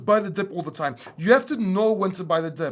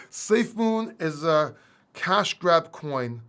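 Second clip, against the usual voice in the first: deadpan; much slower than usual. Real, not acted. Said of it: "trying to say it with a straight face".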